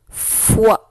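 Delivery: FOI with a lengthened f; dictation. Shown as a demonstration. Teacher dictating the third syllable to pupils, dictation voice. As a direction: dictate FOI as one careful, isolated syllable. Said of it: "Je vais te dicter les syllabes".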